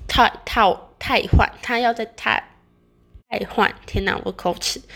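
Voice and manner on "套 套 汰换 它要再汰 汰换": stumbling over words through braces; tripping on the word, mouth full of braces. Real, not acted.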